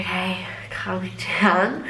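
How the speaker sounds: soft whispered self-calming; whispered self-soothing. Retold or imitated. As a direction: breathe it out in a hush.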